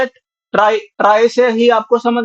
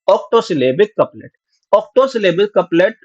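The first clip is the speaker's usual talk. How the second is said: slow enunciation; much slower than usual. Shown as a demonstration. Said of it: "teacher spells out new term".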